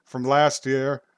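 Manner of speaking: dramatic summoning sorceress; grand spooky narration. Acted. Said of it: "I am Magpie".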